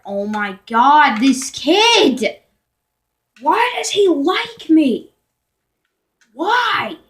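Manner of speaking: high, loud, slowed mock panic; freaked out. Telling viewers how the stalker scared her, high mock panic. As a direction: act freaked out by the kid. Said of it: "I'm like".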